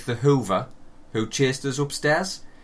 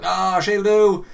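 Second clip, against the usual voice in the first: villain picking victim; 6 semitones higher, 6 dB louder, much slower than usual. Retold or imitated. Gleeful villain picks victim in dream.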